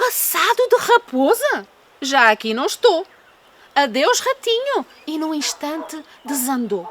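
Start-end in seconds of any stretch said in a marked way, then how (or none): 0.1-4.9 high, alarmed fox voice; startled fox. Acted. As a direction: squeal in fright and hurry off. Frightened fox flees.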